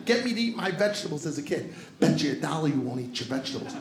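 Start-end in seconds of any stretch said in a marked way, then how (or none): 2.0-3.7 dad's voice. Retold or imitated. Dad voiced bribing kid.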